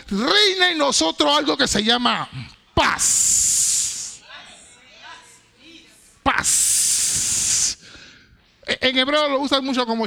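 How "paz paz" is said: whispered peace. Acted. Preacher breathes out the word peace.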